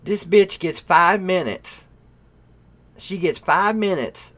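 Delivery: high, loud, incredulous outburst; loud disbelief. Real, not acted. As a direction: hammer it out in real amazement. Marvels at clip's five minutes.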